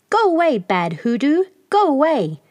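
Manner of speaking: put-on little boy shouting at the snake to leave; child calling out. A narrator's reading. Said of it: "called out".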